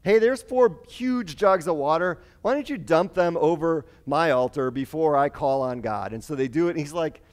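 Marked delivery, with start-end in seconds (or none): 0.0-6.1 cocky confidence. Retold or imitated. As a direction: play Elijah relishing his moment. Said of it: "he's feeling it".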